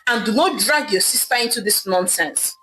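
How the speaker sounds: a betrayed husband lashing out; angry barking. Acted. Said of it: "Ame barked angrily at Idara".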